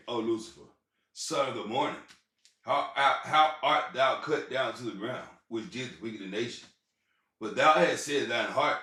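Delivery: lightly intoned verse reading; scripture recitation. Acted. Recites Isaiah 14:12 aloud.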